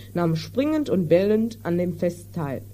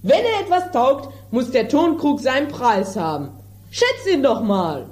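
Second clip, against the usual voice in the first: irate landowner; 3 semitones higher than usual. Acted. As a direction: sputter with outrage over the broken jar. Don Lollo bullies the tinker.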